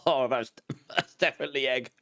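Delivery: talking while chewing a bean. Real, not acted. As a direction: mouth full, chewing through the words. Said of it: "I can't even chew it".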